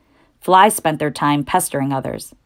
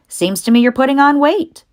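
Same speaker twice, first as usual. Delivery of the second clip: put-on higher, louder old ewe voice; old sheep voice; 9 semitones higher, 5 dB louder than usual. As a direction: greet him as a chatty old sheep. Old sheep teases Wilbur.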